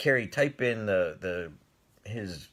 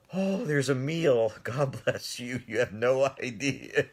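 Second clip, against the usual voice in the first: grateful laughter; 3 semitones higher than usual. Retold or imitated. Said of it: "Now I'm like".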